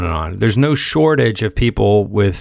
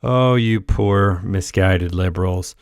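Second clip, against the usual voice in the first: smug condescension; 3 semitones lower than usual. Retold or imitated. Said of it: "God, the smug tone of just like".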